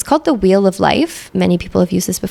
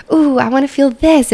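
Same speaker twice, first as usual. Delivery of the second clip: eager, higher-pitched ooh of desire; excited; 6 semitones higher than usual. Acted. Coach voicing a core desired feeling to listeners, excited. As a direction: bubble up with excitement on the wish. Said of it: "felt the excitement in my voice".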